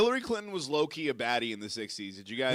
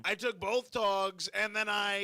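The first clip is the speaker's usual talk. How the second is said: Donald Trump; 2 semitones higher than usual. Acted. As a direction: do a comic politician impression, pitched up. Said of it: "At least you let me do the Trump impression".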